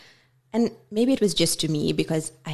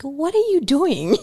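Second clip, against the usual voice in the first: exasperated self-rebuke; 7 semitones higher, 5 dB louder than usual. Retold or imitated. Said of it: "I'm like".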